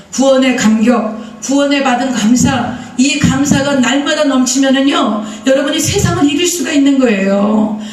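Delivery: slow, weighted sermon phrasing; slow preaching emphasis. Acted. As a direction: lay each phrase down slowly.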